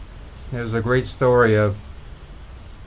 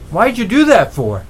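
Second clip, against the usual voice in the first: high, loud puzzled demand; incredulous; 4 semitones higher, 5 dB louder than usual. Retold or imitated. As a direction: ask in disbelief. Frog questions the escapee.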